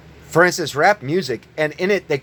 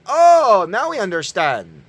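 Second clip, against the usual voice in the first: mock realization. Real, not acted. Sarcastic realization.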